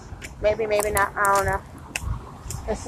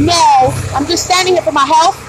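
sarcastic retort; 4 semitones higher, 4 dB louder than usual. Retold or imitated. Sarcastic reply to customer.

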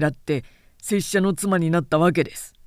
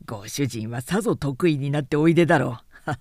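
stiff formal samurai. Acted. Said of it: "あざけるように鼻で笑った".

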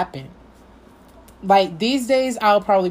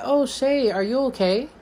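kind concern; 5 semitones higher than usual. Retold or imitated. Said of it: "just out of kindness".

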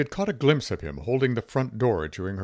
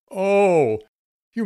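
shrill laugh; 10 semitones higher, 7 dB louder than usual. A narrator's reading. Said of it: "Her laugh was shrill".

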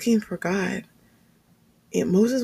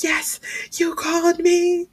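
eager answer to dad; 10 semitones higher, slower than usual. Retold or imitated. Bursting in answering father.

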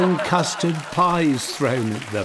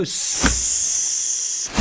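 hiss. Shown as a demonstration.

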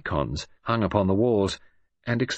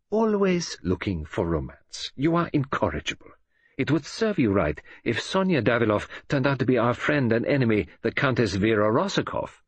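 Poirot scolding a romantic friend; 3 semitones higher than usual. Acted. Poirot chiding Hastings for romance, mock despair. Poirot voiced in a read novel.

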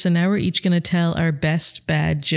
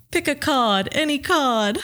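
magician voice; 9 semitones higher, slower than usual. Acted. Punchline in a magician's voice.

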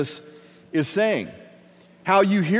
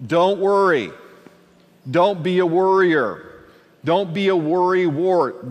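emphatic urging; 3 dB louder than usual. Acted. Urging the congregation not to worry.

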